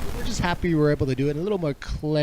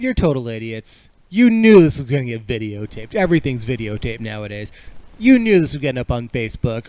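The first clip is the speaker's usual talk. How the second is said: scolding; 4 dB louder than usual. Real, not acted. Scolding the brawlers on air.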